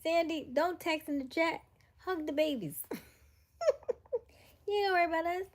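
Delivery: high excited calling out. Real, not acted. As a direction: call out to her, high and eager. Calling to sister on stream.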